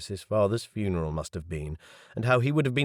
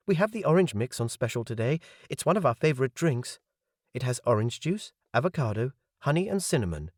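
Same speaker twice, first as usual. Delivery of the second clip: higher, quick and chipper waitress; serving girl voice; 4 semitones higher, faster than usual. Acted. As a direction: sell the special like an eager waitress. Waitress recites today's special.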